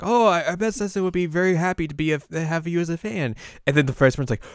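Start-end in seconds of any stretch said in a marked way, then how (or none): 0.0-3.4 high, loud gushing reply; hammed-up eager reassurance; acted eagerness. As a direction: gush brightly in a pitched-up voice. Acted flustered reply about Setsuna.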